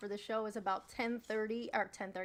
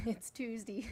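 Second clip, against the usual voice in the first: laughing; 3 dB quieter than usual. Real, not acted. Laughing repeat.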